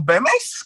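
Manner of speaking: "Bemes" with a final s, Ashkenazi Yiddish style; "Bemes" as Ashkenazi Jews say it; Yiddish accent. Retold or imitated. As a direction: say "Bemes" ending in s, not t. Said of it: "ya con un acento".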